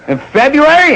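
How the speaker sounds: high incredulous question; surprised. Retold or imitated. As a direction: ask in disbelief.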